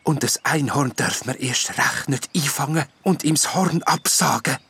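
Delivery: soft, breathy whispered fairy voice; gentle wood nymph. A narrator's reading. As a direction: soothe the jester kindly. Nymph scolds gnome.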